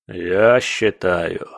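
slow, low inhuman voice. Acted. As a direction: drag it out like something inhuman. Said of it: "нечеловеческий голос".

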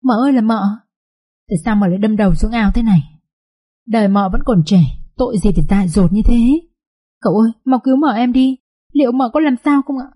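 a scared servant wailing over her mistress; panicked high lament over the drowned mistress; frightened wailing. Acted. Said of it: "sợ quá và kêu ầm lên".

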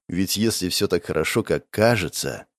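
ordinary delivery

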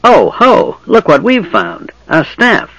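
high, slow, gloating goblin. Acted. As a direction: crow over the find like a goblin. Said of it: "then began to laugh".

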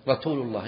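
رسول said as "ratul"; t-for-s lisp on رسول; lisp demo. Shown as a demonstration. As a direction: put a t in place of the s in رسول. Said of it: "السين ينطقها تاء".

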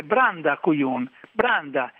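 attempted Ligurian accent, admittedly imperfect; Ligurian dialect. Shown as a demonstration. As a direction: say it in Ligurian dialect as a non-native would. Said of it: "te lo dico in ligure".

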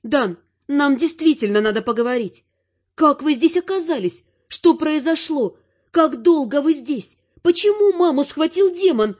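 high female voice firing anxious questions; mother's barrage of questions. Acted. Mother bombards son Dan with questions, high and anxious. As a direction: pelt him with questions. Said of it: "Обрушила на меня поток вопросов матушка".

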